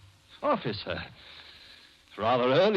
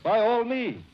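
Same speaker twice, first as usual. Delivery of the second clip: overeager; 10 semitones higher than usual. Acted. Murderer overeager with police.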